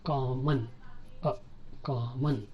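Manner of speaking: కామన్ with a short reduced last vowel; clipped schwa. Shown as a demonstration. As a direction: say కామన్ as "KAW-mun", with the schwa alone between. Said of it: "cut చేస్తాం అనమాట".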